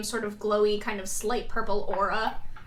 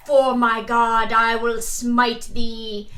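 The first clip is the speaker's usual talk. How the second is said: mock biblical prophet; 8 dB louder, slower than usual. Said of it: "Volcano's like".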